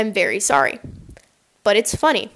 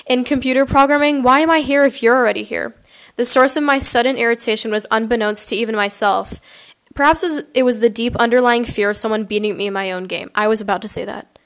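reading a fan story aloud; story narration. Acted. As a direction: narrate the chapter with voiced quotes. Reads Wattpad story aloud.

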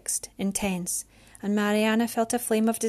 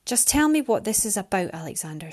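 sharp, curt demand; snapped. Acted. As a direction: snap at him impatiently. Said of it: "she snapped".

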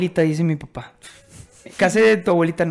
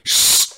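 shushing. Retold or imitated. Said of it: "así".

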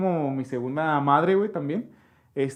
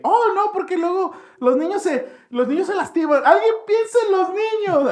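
high, loud, mock-fretful mom; mom's worried voice; 13 semitones higher, 5 dB louder than usual. Son imitating his mother fretting over the children, high hammed-up worry. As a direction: ham up a fussy mother worrying about the kids. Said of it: "mi jefa es bien así, bien de que".

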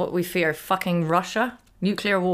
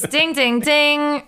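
ding sound; 6 semitones higher, much slower than usual. Pretend. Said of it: "what's the noise for yes?".

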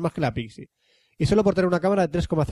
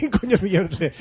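laughing mock question; 3 semitones higher than usual. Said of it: "todo el mundo pregunta".

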